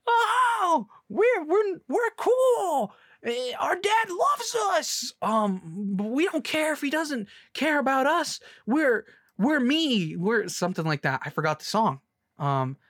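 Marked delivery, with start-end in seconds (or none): 0.0-10.5 mock freak anthem. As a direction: belt it in a squeaky mock-proud falsetto. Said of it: "where the freaks are like".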